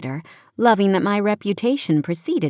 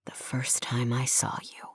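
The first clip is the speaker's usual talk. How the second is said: low, hushed male voice; whisper; 5 semitones lower, 10 dB quieter than usual. A narrator's reading. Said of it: "he whispers".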